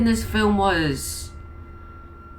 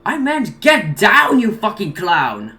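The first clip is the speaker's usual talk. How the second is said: exasperated yelling; 5 semitones higher, 5 dB louder than usual. Acted. Angry scolding of dense sidekick.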